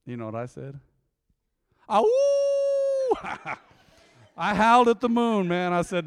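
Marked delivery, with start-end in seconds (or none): 1.9-3.6 high, loud mock wolf howl. Pastor hamming a howl at the moon over his wife. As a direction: howl at the moon like a lovesick dog.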